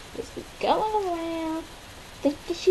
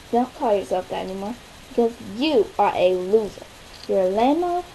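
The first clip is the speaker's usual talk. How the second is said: put-on mean girl voice; 12 semitones lower than usual.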